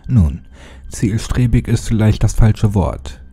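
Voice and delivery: dark, measured storytelling voice; horror story narration. A narrator's reading. Narrator reading a horror creepypasta to his viewers in a dark tone. Reads creepypasta over music.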